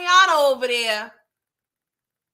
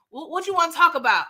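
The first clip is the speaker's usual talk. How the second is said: quicker, higher impatient question; retold impatient repeat; 4 semitones higher, 4 dB louder, faster than usual. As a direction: repeat it briskly, pitched up. Repeats the question more insistently.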